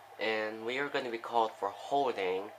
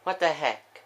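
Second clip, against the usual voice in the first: higher, louder baffled outburst; startled exclamation; 4 semitones higher, 5 dB louder than usual. Real, not acted. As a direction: blurt it out in real disbelief. Baffled reaction to the big play.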